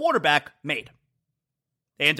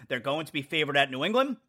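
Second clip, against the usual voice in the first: softer, chuckling through the words; laughing while talking; 6 semitones lower, 7 dB quieter than usual. Real, not acted. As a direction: laugh it off at the rival. Mocking rival team, laughing.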